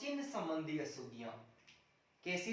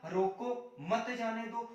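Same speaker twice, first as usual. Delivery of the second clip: "रोको" set apart, then "मत जाने दो" run together; pause after रोको; slower than usual. Shown as a demonstration. Teacher giving the first correct reading, pause after रोको. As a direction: break after "रोको" and lean on "मत". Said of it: "शुद्ध दो प्रकार से हो सकता है".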